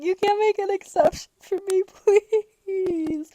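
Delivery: high, pleading whine; high, whiny mock plea; begging whine. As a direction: beg the clerk with a laugh. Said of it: "I'm like".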